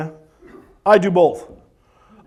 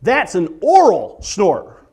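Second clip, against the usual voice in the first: slow demo line; 2 semitones lower, much slower than usual. Shown as a demonstration. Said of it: "The only other way to snore".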